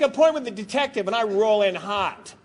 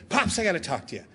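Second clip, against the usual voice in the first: sheepish daughter; 6 semitones lower, 8 dB quieter, faster than usual. Retold or imitated. Teen daughter confessing to dad.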